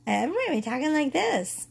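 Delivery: high-pitched, amused squeak of disbelief; munchkin voice. Real, not acted. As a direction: laugh at your own high munchkin voice. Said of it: "I sound like a fucking munchkin".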